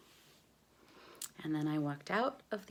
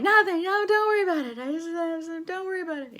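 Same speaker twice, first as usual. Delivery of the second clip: high, louder, tearful and fast; crying while talking; 13 semitones higher, 6 dB louder, faster than usual. Retold or imitated. On the phone with her agent, still crying. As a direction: blubber it out through tears. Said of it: "crying still".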